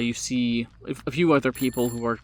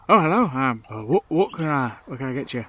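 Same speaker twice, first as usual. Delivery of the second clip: vendor voice. Acted.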